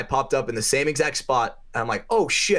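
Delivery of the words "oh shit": retold startled yelp. Retold surprise mid paintball fight.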